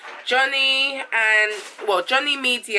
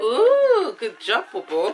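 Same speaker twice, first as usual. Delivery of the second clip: cooing praise; 2 semitones higher, 4 dB louder, much slower than usual. Real, not acted. Parent praising a child for a good job, cooing. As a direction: coo your praise to a little one.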